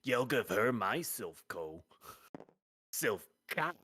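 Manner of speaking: loud hammy floozy; brassy gum smacking floozy. Acted. Hamming floozy banter.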